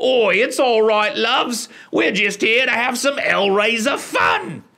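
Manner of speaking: put-on very high stage Cockney accent, chimney-sweep style. Describing a Hellraiser film's characters, mimicking the British one: Mary Poppins chimney-sweep accent. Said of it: "talks like a chimney sweep from Mary Poppins".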